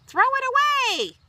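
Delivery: high, loud pleading whine; disgusted plea. Acted. Child begging grandma to toss worm, high whine. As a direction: beg her to get rid of it. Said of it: "I said".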